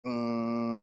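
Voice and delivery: mimicking a broken garbage disposal; imitated whine. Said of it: "made that whine sound".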